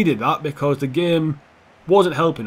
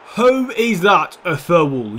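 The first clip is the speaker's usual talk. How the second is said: slow, loud disbelief; indignant protest; 5 dB louder, much slower than usual. Real, not acted. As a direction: drag out the outrage at the referee. Protesting a foul call.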